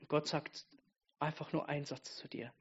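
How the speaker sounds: hushed, quick whisper; whispered confidingly to the congregation. Real, not acted. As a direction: lean in and whisper it. Whispered aside in sermon.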